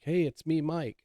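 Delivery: high, loud visitor's call; calling back. Retold or imitated. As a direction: imitate someone announcing himself at the door. Retold visitor calling through door.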